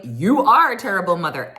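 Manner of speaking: a touch of a heated comeback; Giselle's retort. Retold or imitated. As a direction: throw it back at her. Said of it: "And Giselle was like".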